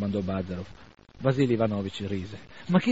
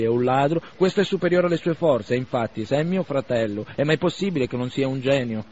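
a bit louder, mocking argument; lightly voiced Bazarov, sardonic; 3 semitones higher, 6 dB louder than usual. Bazarov ridiculing family loyalty to Arkady, sardonic. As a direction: lay out the joke with scorn.

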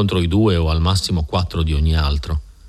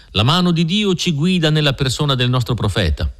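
devout declaration; 7 semitones higher than usual. A narrator's reading. Mormons declare faith in prophet.

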